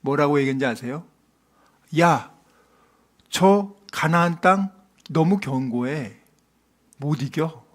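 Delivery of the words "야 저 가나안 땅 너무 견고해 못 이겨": slow, quiet mock discouragement; voicing defeated doubters. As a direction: give up, sinking softer at the end. Voices faithless spies giving up.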